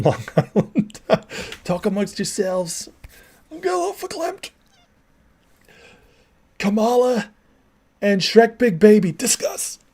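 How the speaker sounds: put-on New York Jewish accent, Coffee Talk hostess. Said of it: "Mike Myers, baby, the best".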